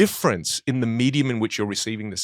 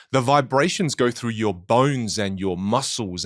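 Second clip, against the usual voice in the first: normal talking voice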